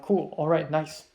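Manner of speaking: unbothered, even-pitched quote; nonchalant. Retold or imitated. Quoting Potter's reaction to plans, nonchalant. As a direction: toss it off like it hardly matters. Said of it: "He's very nonchalant about it".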